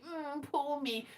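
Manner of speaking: slow, drawn-out mock moping; mock self-pity. Streamer mimicking own glum mood, mock self-pity. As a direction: put on a whiny poor-me wallow. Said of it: "I was like".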